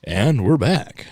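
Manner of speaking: slow drawn-out show host; announcer voice. Retold or imitated. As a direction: drag it out like a radio host. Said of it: "I'd be like".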